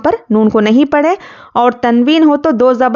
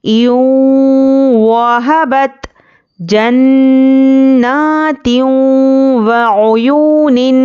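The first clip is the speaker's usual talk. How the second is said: slow, drawn-out tajweed recitation; Quranic recitation; much slower than usual. Shown as a demonstration. Teacher recites idgham examples for students, slow tajweed. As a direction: chant each example with measured pauses.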